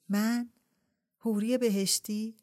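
can't believe she's being called that; surprised. Acted. Shahrbanu doubts Ebrahim's compliment, surprised. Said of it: "با تعجب پرسید".

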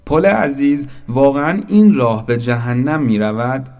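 loud, high-pitched eager question; excited shout. A narrator's reading. Boat calling up to the bridge, excited shout. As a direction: call out loudly in amazement. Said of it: "به خود آمد و فریاد زد".

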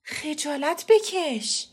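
angry, slightly trembling. A narrator's reading. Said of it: "با عصبانیت ... با صدایی که کمی میلرزید گفتم". (سرزنش با عصبانیت و کمی لرزش صدا)

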